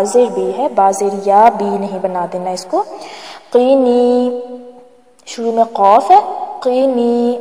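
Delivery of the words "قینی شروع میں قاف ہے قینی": قینی with the final نی stretched long; long nee. Shown as a demonstration. Teacher showing learners the lengthened نی in قینی. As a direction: draw out the نی in قینی. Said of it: "نون زیر یا نی، اسے کھینچیں گے".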